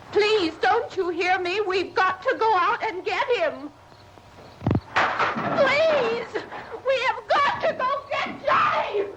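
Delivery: high, frantic begging, near tears; desperate pleading. Real, not acted. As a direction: beg them, panicked and pleading. Pleading desperately to fetch brother.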